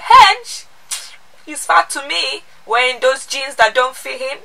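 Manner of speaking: put-on high-pitched, scolding old nan; nan's voice. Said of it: "She was like".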